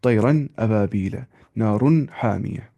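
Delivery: izhar demo, nun said clearly without nasal; Quran recitation. Shown as a demonstration. Teacher demonstrates izhar by reciting. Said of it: "जल्दी से ऐसे".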